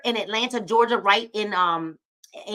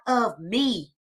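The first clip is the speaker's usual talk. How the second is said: said out loud; 4 dB louder than usual. Shown as a demonstration. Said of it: "and say it loud".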